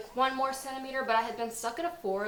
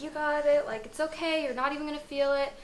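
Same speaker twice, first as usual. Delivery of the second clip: cheering nurse; 6 semitones higher than usual. Retold or imitated. Nurse cheering her through the epidural, high encouraging cheer. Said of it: "cheering for me".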